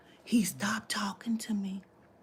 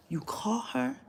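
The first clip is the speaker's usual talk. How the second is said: whisper; 2 semitones higher, 3 dB quieter, slower than usual. Retold or imitated. Advising him in a quoted whisper.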